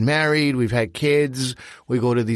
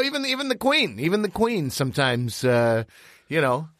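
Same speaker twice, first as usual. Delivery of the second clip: mock royal scolding; 4 semitones higher than usual.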